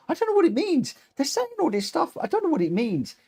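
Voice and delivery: high-pitched, squeaky exasperation; baffled protest. Real, not acted. Streamer baffled by untranslated chat messages, high-pitched exasperation. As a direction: voice shoots up in bafflement, then eases down.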